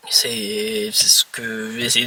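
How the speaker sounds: talking between sips of a drink; while sipping a drink. Real, not acted. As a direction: speak right after a sip. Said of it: "Désolé si je bois en même temps".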